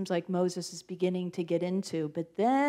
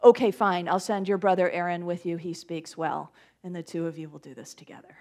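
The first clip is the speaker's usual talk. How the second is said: frustrated God; 4 semitones lower than usual. Acted. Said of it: "a little frustrated and says".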